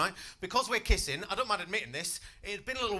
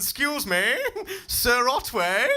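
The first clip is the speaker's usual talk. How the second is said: put-on higher, slow little girl's voice; 7 semitones higher, 5 dB louder, much slower than usual. Six-year-old Janice asking the teacher, higher little voice. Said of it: "Janice just walked up".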